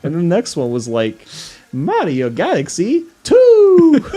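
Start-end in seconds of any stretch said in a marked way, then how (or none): 1.7-4.1 very high, loud, slow title shout; game title announcement. Retold or imitated. Imitating the next quiz clip, high drawn-out title cry. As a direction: hold the final word at the top. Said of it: "he kept saying the name of the game".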